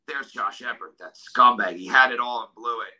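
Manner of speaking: a hint of neighbours' scorn; scornful. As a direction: quote the town with a touch of contempt.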